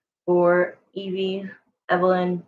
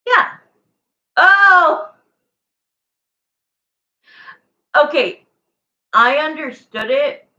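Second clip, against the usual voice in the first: surprised; 8 semitones higher, 9 dB louder, slower than usual. Real, not acted. Sudden realization of mistake.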